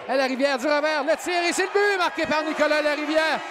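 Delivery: rising excited call; goal call. Real, not acted. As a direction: build up to the goal.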